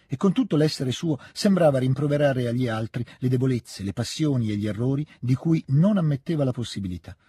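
measured reading of a classic novel; story narration. A narrator's reading. Reading novel aloud over music. (lettura narrativa pacata)

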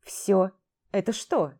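contemptuous grumble. Acted. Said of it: "презрительно буркнул Мак".

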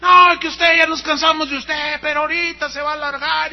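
a churchgoer heckling the pastor, shouting; retold heckler's shout. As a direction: shout down the preacher from the pews. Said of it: "alguien le gritó cosas".

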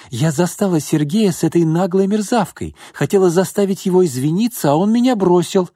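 jilted woman complaining to his mother, upset; upset complaint. A narrator's reading. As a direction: pour out the grievance, rising.

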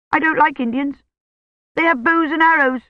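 put-on high little-girl voice, worried; childish question. A narrator's reading. Delirious old woman asks her daddy about Indians, high childish worry. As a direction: ask like a scared small child.

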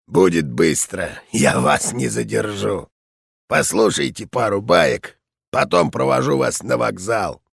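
put-on low, gruff old man voice; an old veteran pleased and hospitable; raspy old general. General delighted by tea.

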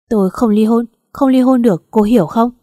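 adamant refusal. Acted. Drunk husband refuses divorce.

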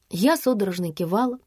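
ordinary delivery

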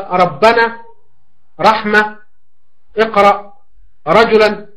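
ربنا with a full, heavy, emphatic open r, said slowly. Shown as a demonstration. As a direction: carefully sound the thick r in رحمة and رجلا. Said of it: "الراء المتحركة تكون مفتوحة".

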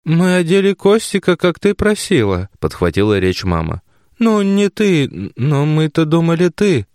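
put-on a flustered old mother; mother explaining to daughter, flustered and high. A narrator's reading. Mother's voice held in reading.

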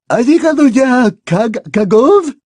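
a lofty headmistress, unhurried; Madame Maxime voiced.

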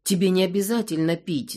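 ordinary delivery, nothing marked

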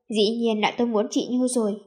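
ordinary delivery, nothing marked

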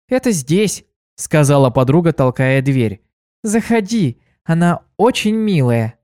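put-on chirpy helpful girl offering; young mare voice.

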